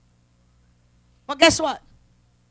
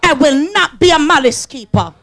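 congregation vow; 4 dB louder than usual. Acted. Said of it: "Raise your power hand and said".

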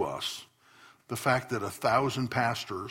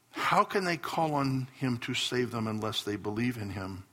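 scripture reading. Acted. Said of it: "That is why Scripture says".

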